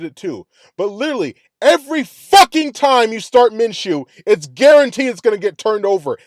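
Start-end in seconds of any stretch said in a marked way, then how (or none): 1.6-6.2 louder, slowed ranting; exasperated fan venting; angry rant. Real, not acted. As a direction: hammer it home in frustration. Ranting about Minshew turnovers.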